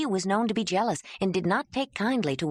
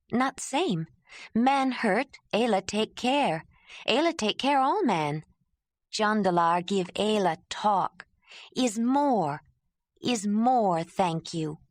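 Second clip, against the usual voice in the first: raised, slow broken speech; earnest Ayla; 4 semitones higher, slower than usual. Acted. Ayla explaining that language is more than thanks, earnest. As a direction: insist word by word, earnestly.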